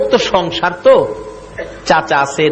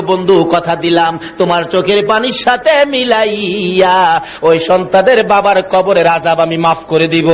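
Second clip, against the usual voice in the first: melodic waz preaching. Acted. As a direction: chant the sermon, stretching the line endings. Preacher's melodic chanted sermon. (সুর করে ওয়াজ)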